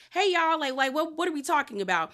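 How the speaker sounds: high, bright put-on friendliness; fake sweet. Julia faking innocence on returning to the bar, fake sweet. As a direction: play it sugary and false. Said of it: "she's being real fake".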